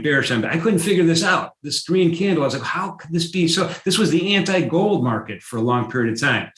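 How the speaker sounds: worked up, pitch lifting; excited. Real, not acted. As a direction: let the puzzlement run high with excitement. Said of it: "I'm getting really excited about this".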